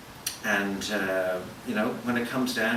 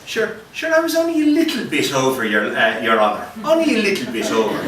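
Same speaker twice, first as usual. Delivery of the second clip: pleading to judge; 2 semitones higher, 6 dB louder than usual. Acted.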